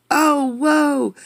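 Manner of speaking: high, loud gasp of surprise; startled. Acted. Narrator startled as the box flies off. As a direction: caught off guard, whoa.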